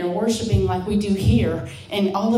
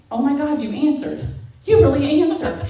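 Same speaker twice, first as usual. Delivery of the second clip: retold stunned realization, higher pitch; 5 semitones higher than usual. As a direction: act out being stunned at an answered prayer. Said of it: "like, stunned".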